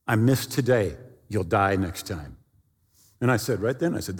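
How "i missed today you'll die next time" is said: ominous voice. Retold or imitated. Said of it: "this voice said to me".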